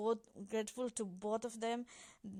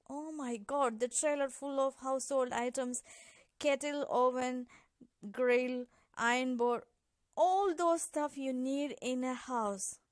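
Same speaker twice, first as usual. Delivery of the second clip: louder, choked-up wonder at the gifts; listing the gifts in disbelief, slowing down; overwhelmed; 3 dB louder than usual. Retold or imitated. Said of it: "I was in tears".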